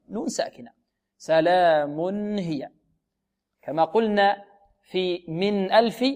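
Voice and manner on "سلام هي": slow "سلام هي" with a clear n before h; tanween as still n. Shown as a demonstration. Teacher models for students, clear still n. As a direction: stretch "سلام", sound a clean "mun-hiya". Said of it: "إذن التنوين هو نون ساكنة نطقا".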